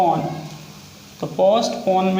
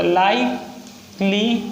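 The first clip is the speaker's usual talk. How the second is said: slow demo; much slower than usual. Shown as a demonstration. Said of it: "words की आपको अच्छे से practice करनी है".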